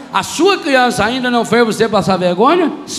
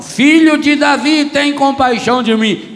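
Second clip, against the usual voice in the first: higher, louder shouted plea; 5 semitones higher, 3 dB louder than usual. Acted. Blind man crying out louder to Jesus, shouting. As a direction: cry out louder. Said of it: "ele gritava mais alto".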